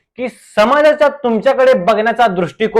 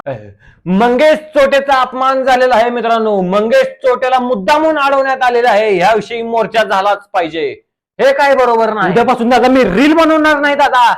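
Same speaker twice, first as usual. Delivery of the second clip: indignant protest; 3 semitones higher than usual. Acted. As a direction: rouse the crowd, outraged. Guest protests the insult. (संतापून, मोर्च्याची हाक देत)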